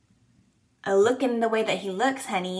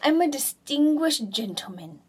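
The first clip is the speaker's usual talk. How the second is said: voicing the dog; 3 semitones higher, 3 dB louder than usual. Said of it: "Are you saying".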